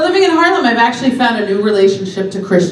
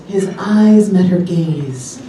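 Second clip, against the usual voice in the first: slow, sultry-ish audiobook read; slow romance audiobook narration; romance novel narration; 2 semitones lower, slower than usual. Shown as a demonstration. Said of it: "My favorite line is".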